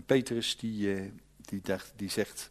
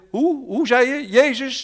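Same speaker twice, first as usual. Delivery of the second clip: mock puzzled question; 12 semitones higher, 9 dB louder than usual. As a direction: pitch jumps high in feigned confusion. Peter feigns not knowing Jesus.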